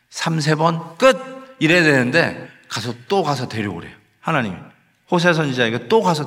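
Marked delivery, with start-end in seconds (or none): none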